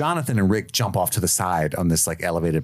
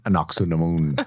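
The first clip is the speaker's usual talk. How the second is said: lightly voiced mummy, a little deep; a hint of a deep mummy growl; 2 semitones lower than usual. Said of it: "in his little deep mummy voice".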